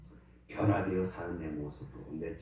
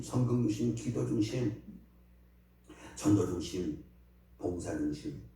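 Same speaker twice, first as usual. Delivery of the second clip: prayer. Acted. Pastor continues prayer. (목사가 회중을 위해 드리는 엄숙한 기도)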